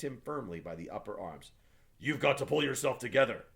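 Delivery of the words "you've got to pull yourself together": soothing gruffness. A narrator's reading. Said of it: "he said with soothing gruffness".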